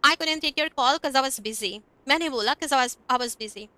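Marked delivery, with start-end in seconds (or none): 0.0-1.7 'cause said as kəz, slow and careful; slow casual demo. Shown as a demonstration. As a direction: say 'cause as a quick kəz, slowly for learners. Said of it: "अब मैं आपको बोल के दिखाती हूँ".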